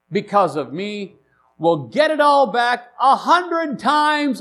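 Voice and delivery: emphatic reading, lifting high on the promise; scripture reading. Acted. Reads scripture aloud.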